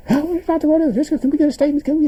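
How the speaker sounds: high, loud press shouts; reporters shouting. Retold or imitated. Reporters shouting questions at the president. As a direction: call over the crowd for a statement.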